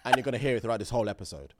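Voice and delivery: real hoarse throat. Real, not acted. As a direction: speak through a sore throat. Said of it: "My throat is hoarse".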